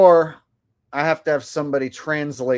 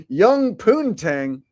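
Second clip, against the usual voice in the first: incredulous; 6 semitones higher, 4 dB louder, much slower than usual. Real, not acted. Incredulous repeat of crude chat.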